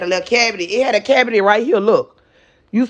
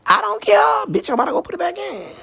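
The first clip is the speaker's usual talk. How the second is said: lisping through a gap in the teeth; missing front teeth; 3 semitones higher, faster than usual. Real, not acted. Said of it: "I can't even pronounce my words right because my teeth is gone".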